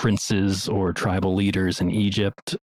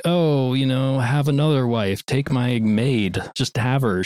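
mock offhand Sarah; 5 semitones higher than usual. Sarah voiced, offering her maid.

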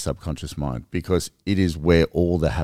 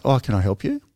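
friendly builder; 5 semitones higher than usual. Retold or imitated. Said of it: "imagine they changed it".

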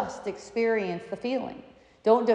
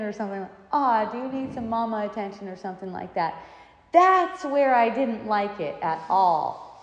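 complaining son; 4 semitones higher, 4 dB louder than usual. Retold or imitated. Son scolding mother, retold.

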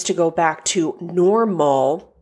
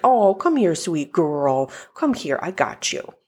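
tender to the dog. Retold or imitated. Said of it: "I'm like".

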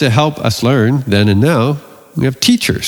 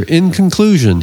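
a touch of a schoolboy giving a formal report, pitched up; lightly mock formal class presentation opener; oral presentation voice; 4 semitones higher than usual. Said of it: "using his best oral presentation voice".

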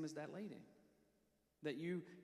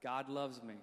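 louder; 4 dB louder than usual. Shown as a demonstration. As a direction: say it louder, with conviction. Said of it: "Now say it louder".

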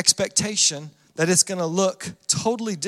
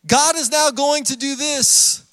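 confident crowd claim; 5 semitones higher than usual. Acted. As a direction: proclaim it as an expectant crowd. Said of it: "these people are saying".

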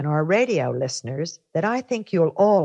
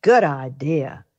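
gentle storybook reading; story narration. A narrator's reading. First Lady reading a fairy tale to radio listeners. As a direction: read it like a children's storyteller.

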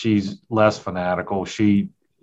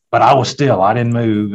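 mock insistent protest, louder and raised; retold protest; 3 semitones higher, 6 dB louder than usual. Son telling mother about the hunt, imitated protest. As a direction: push back like a wronged kid.

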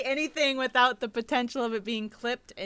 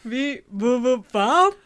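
toy robot voice; 3 semitones higher, 6 dB louder, slower than usual. Shown as a demonstration. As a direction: beep back like a toy robot. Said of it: "I think it actually kinda goes".

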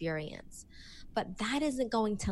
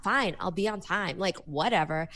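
a lightly voiced defensive coworker; dismissive Bob. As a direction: shrug it off like an annoyed coworker. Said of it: "Bob's like".

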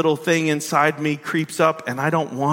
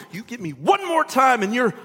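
huffy ultimatum; 6 semitones higher than usual. Retold or imitated. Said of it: "So we tell people".

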